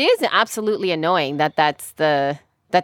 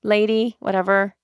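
snarky; 2 semitones higher than usual. Retold or imitated. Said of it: "I really wanted to be so snarky".

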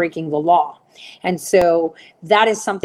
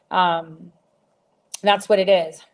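normal talking voice

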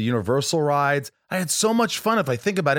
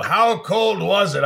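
Carson bit; 7 semitones higher, 4 dB louder, slower than usual. Retold or imitated. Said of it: "I would do a Carson".

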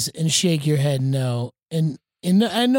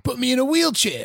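put-on light Canadian accent, higher; a hint of a Canadian voice; 7 semitones higher than usual. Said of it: "That was a good Canadian accent".

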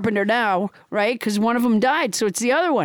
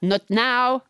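formal mock French accent; French Trump; 2 semitones lower than usual. French Trump screens the request to speak to Paula, French accent. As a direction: inquire in a comic French accent. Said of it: "I am French Trump".

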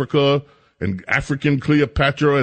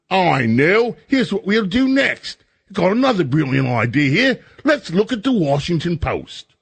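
mock bright idea; 4 semitones higher than usual. Mocking his own next idea.

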